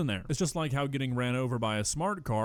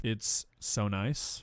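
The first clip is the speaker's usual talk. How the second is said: slow, sarcastic drawn-out echo; mocking drawl; 4 semitones lower, much slower than usual. Mocking the jail claim, slow and sarcastic. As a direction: stretch it out to mock the friend's claim.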